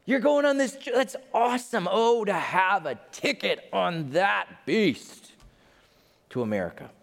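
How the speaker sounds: high, gushing dreamer; mock-dreamy excitement, slowing at the end; excited passenger. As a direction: swoon over the ticket. Excited passenger imagining the trip.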